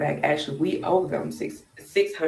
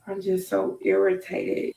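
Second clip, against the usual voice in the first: holding back tears. Real, not acted. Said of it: "I'm still sick and trying not to cry".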